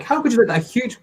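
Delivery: put-on high-pitched girl voice; light imitation of an indignant girl; Lisa voice. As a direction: squeak it like an upset kid. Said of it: "Lisa's like".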